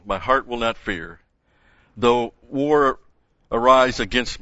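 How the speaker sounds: emphatic psalm reading; measured, declarative Bible reading from the pulpit; scripture reading. Acted. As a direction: declaim the psalm firmly, phrase by phrase. Reads the psalm aloud to congregation.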